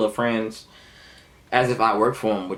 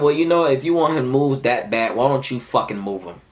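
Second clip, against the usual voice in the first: higher, sassy comeback; retold retort; 4 semitones higher, 3 dB louder than usual. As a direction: act out a pointed comeback. Retelling heated retort to boss.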